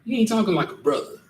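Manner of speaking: high, disbelieving mock voice; baffled coworker. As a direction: sound like a friend who can't believe what he's hearing. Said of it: "Brian will look at you like".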